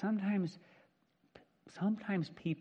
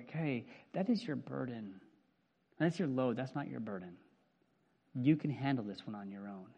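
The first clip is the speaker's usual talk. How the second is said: soft, lower kind firmness; gentle refusal; 3 semitones lower, 4 dB quieter than usual. Retold or imitated. Friend telling someone to carry their own load, gentle. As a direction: decline lovingly but firmly. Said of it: "the loving thing is to go".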